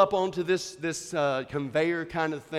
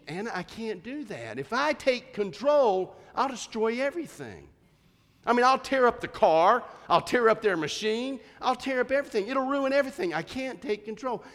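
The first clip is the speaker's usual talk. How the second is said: raised-pitch, insistent explaining; acted exasperated protest; 6 semitones higher than usual. Father telling daughter he can't take control, acted exasperation. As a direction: reenact a father pleading his case.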